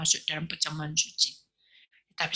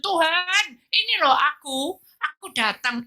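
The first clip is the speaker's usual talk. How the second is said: sincere prayer; 8 semitones higher, slower than usual. Shown as a demonstration. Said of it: "mengungkapkan isi hati saudara kepada Tuhan".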